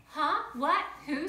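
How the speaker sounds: father woken at night, startled. Acted. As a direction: jolt awake confused.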